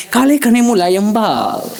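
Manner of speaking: slow, silky ad-model voice; slow dreamy shampoo commercial read. Retold or imitated. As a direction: purr it like a hair-ad line. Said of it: "આવી રીતે આમ કે".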